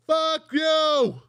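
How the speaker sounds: mock outraged shout. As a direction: yell it at the TV. Viewers reacting to commercial.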